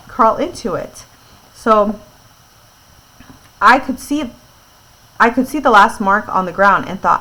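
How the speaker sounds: clear, lively read-aloud voice; story narration. A narrator's reading. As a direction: read it to a listening class.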